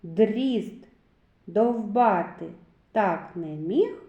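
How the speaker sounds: slow, deliberate reading with pauses between words; verse recitation. Shown as a demonstration. Teacher recites a rhyme for children to count sounds, slow and emphatic. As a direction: set out each word separately so children hear its sounds. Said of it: "полічіть, скільки звуків Д у віршику".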